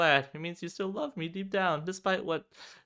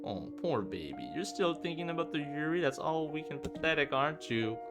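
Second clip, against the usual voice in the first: put-on pouty, toying baby-talk that climbs higher; mock concern; 5 semitones higher than usual. Yuri toying with Robin, pouty mock pity. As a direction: pout and toy with your victim. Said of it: "pouts with mock concern, toying with me".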